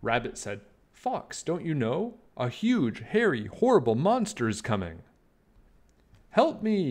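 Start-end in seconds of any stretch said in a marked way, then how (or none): 0.9-5.0 high start then mild worried warning; a rabbit amazed the fox hasn't heard; urgent Rabbit. Acted. 6.3-6.9 much higher, louder frightened yelp; a fox crying out in terror. Acted. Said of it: "yelped Fox".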